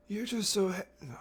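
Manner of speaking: squeaky high mock Capitol voice, cracking; strained put-on high pitch. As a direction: attempt a very high Capitol voice and break off. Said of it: "High pitch".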